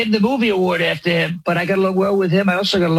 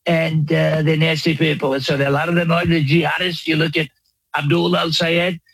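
rambling mock-presidential boast; lightly voiced Trump parody; Trump impression. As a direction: riff like a bragging president.

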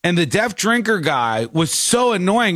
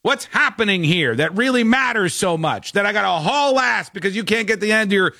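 protective reassurance; 3 semitones higher than usual. Retold or imitated. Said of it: "weird protective mode".

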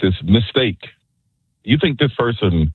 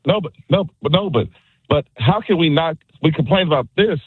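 heated protest; 5 semitones higher than usual. Real, not acted. Caller arguing with the host.

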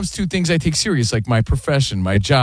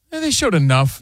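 lukewarm. Retold or imitated. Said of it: "No, you wanna hear".

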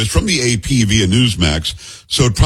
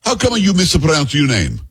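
slow, higher Italian woman impression; thick Italian accent; 4 semitones higher than usual. Woman challenging a news anchor, thick Italian accent. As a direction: imitate an Italian woman confronting you, drawn out. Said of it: "a woman comes up to me with a thick, um, Italian accent".

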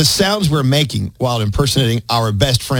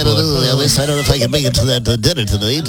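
hesitant, lightly voiced coworker impression; imitating Gandhi; 3 semitones lower than usual. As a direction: make a mild mock excuse, rushing the middle. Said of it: "Gandhi is kinda does this thing".

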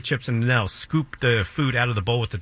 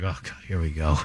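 annoyed employee; 8 semitones lower, 3 dB quieter than usual. Retold or imitated.

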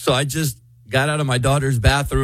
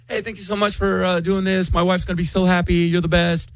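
overly grateful; 5 semitones higher than usual. Retold or imitated. Friendly front to the cleaner.

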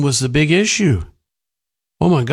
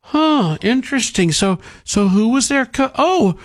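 mock convert; 8 semitones higher than usual. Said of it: "everybody's going".

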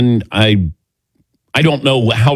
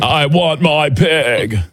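slow, drawn-out Cage line; Nicolas Cage impression; 5 semitones higher, slower than usual. Shown as a demonstration. Host showing co-hosts his Nicolas Cage impression, slow and drawn out. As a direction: drag it out slowly like Nicolas Cage. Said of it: "my Nicolas Cage impersonation".

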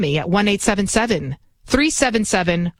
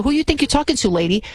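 higher, mildly indignant challenge; pitched-up mock confrontation, falling away at the end; imagined angry person; 4 semitones higher, faster than usual. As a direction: act out a touch of angry confrontation. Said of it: "like, an angry person".

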